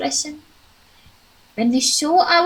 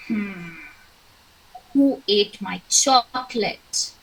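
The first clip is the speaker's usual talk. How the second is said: angry; 4 semitones lower than usual. Shown as a demonstration. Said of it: "Is he happy or angry?".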